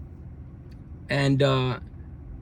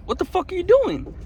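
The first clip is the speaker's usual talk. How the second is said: much higher, furious retold yell; retold angry shout; 12 semitones higher than usual. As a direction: yell it at him like he's stealing your lunch. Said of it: "and he's like".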